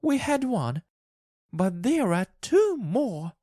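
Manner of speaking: very high-pitched, excited wife; frantic cry. A narrator's reading. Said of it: "she cried".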